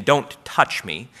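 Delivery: gentle. Shown as a demonstration. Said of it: "Better than hearing that as him saying".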